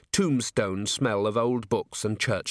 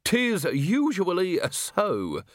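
put-on high, slow cackling old-timer; old man's cackle; 8 semitones higher, much slower than usual. A narrator's reading. Old man amused by the visitor's answer, high cackling voice. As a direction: cackle it out, then draw the words long. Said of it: "The old man cackled again".

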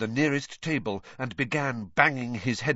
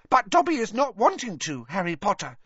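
high squeaky elf voice; normal Dobby elf voice; 10 semitones higher, 4 dB louder than usual. A narrator's reading. Dobby reassures Harry, in his usual high squeak. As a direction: squeak it out openly. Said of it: "talking normally again".

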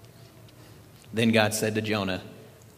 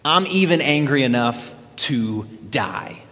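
angry retort; 2 semitones higher, 4 dB louder than usual. Acted. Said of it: "Jonah retorted".

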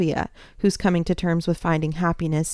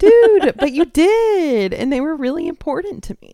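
mock protest; 8 semitones higher, 6 dB louder than usual. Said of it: "I was like".

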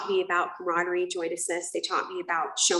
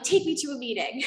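urgent demand; 6 semitones higher than usual. Retold or imitated. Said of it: "And so I'm like".

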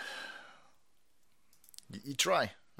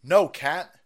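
ordinary talk, nothing marked

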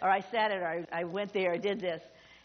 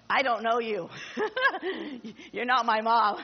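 louder mock-baby protest broken by laughs; laughing baby voice; 4 dB louder than usual. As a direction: voice the startled baby through your own laughter. Voicing a screaming baby, laughing.

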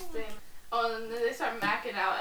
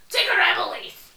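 high, loud imitation of a command; mock shouted order; 11 semitones higher, 10 dB louder than usual. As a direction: call it out like an urgent order. Voices Billy giving an order.

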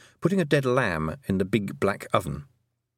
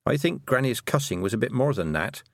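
definite; 3 semitones higher than usual. Acted. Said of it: "in a very definite voice".

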